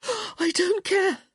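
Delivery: high, slow breathless words; gasped. A narrator's reading. Woman answering her lover, gasped. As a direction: gasp it out. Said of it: "she gasped".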